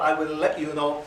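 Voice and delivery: Birmingham-accented "let you know"; light Birmingham accent on "let you know". Shown as a demonstration. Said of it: "you don't use this accent".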